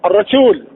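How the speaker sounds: الرسول with a doubled, thick R; heavy doubled ra. Shown as a demonstration. Teacher shows shadda with fatha, heavy doubled R in الرسول. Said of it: "يبقى التشديد بالفتح تفخيم".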